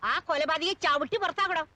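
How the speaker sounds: angry outburst. Acted. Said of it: "ഒന്ന് പതുക്കെ പറ".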